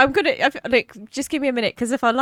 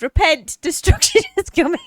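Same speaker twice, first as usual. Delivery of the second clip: mock doomsday preacher; 7 semitones higher, 5 dB louder than usual. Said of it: "somebody's posted".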